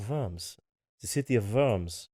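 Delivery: Worms said with a V, as "Vorms"; German pronunciation. Shown as a demonstration. Clarifying the city's name to partner, Worms with a German V. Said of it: "but it's pronounced Worms".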